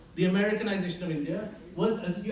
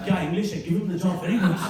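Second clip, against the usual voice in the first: impressed boss; 3 semitones lower, 4 dB louder, faster than usual. Retold or imitated.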